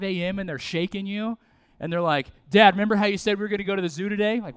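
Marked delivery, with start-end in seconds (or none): 2.5-4.4 put-on eager kid. Child wakes dad at dawn.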